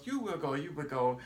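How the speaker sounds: put-on light Portuguese-accented English, first go lifted; a hint of a Brazilian tourist's Portuguese accent; mimicking a Brazilian tourist in a light Portuguese accent. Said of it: "in her Portuguese English accent".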